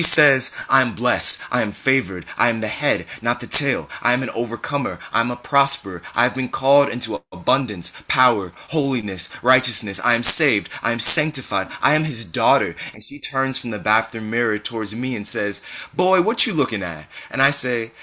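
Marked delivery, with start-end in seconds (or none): 0.7-12.8 rhythmic, emphatic self-declarations; declaimed affirmations. A narrator's reading. Mother declares blessings to bathroom mirror, emphatic affirmations. 15.9-17.1 high, swooping mother's challenge; indignant mock challenge. A narrator's reading. Mother catches son watching at mirror, high mock challenge.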